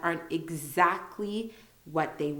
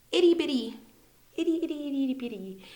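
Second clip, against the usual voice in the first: cutesy; 8 semitones higher, 3 dB louder, much faster than usual. Shown as a demonstration. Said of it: "itty bitty is an informal way of saying very small".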